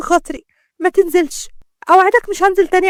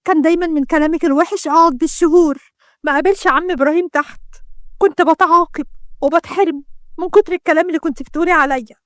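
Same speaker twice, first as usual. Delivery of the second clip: raised, aggrieved voice; hurt reproach; 3 semitones higher than usual. Acted. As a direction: pour out bitter accusations to a sister. Sister reproaches betraying sister in quarrel.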